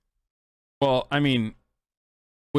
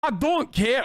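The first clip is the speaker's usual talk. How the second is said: higher mock boomer retort; 9 semitones higher, slower than usual. Mocking boomer, second try.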